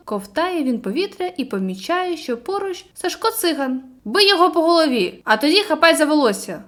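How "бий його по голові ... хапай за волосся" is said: urgent loud call across the water; shouting instructions. Acted. Boy on shore yells rescue orders, urgent shout. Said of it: "гукає Циган".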